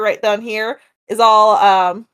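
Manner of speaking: lightly put-on country accent. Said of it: "That sounded really country accent".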